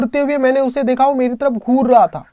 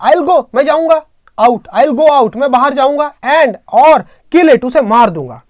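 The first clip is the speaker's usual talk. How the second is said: a grandfather promising to kill the snake, voice raised; determined vow; 3 semitones higher, 5 dB louder than usual. Retold or imitated. (ऊँची, ज़ोरदार आवाज़ में पक्का इरादा)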